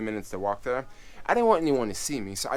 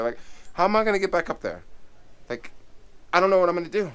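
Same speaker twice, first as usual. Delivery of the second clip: higher, fast replay of his own panic; mock panic; 7 semitones higher, faster than usual. Retelling his thoughts trapped near the snake, mock panicked. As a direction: rush it like you're freaking out again. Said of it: "I'm just freaking out".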